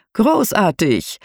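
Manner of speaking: slow, drawn-out showy exclamation; theatrical tour guide. Acted. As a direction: stretch it out like a stage host. Guide claps his hands.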